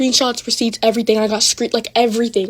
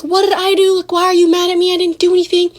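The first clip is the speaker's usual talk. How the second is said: high-pitched, louder mock protest; retold yelling; 8 semitones higher, 4 dB louder than usual. Friend yelling at her in the bus line, high retold protest. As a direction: imitate a friend yelling in a raised, higher voice. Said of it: "yelling at me".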